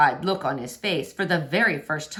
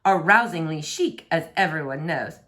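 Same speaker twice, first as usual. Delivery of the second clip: lightly voiced haughty prince, a bit higher; pompous prince; 3 semitones higher than usual. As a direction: puff up like a vain royal. Prince brags about clothes.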